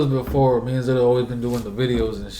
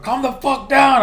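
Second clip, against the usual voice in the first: high, loud, drawn-out shout; loud imitation of a forceful command; retold yelling; 13 semitones higher, 6 dB louder, slower than usual. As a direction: re-enact yelling at someone out of control. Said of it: "I'm all yelling at him".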